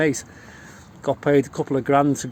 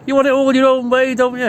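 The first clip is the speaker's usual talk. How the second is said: higher and louder, an indignant jab at the police; 9 semitones higher, 6 dB louder than usual. Retold or imitated. Speaker telling the police off, indignant and loud. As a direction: throw it at them, indignant.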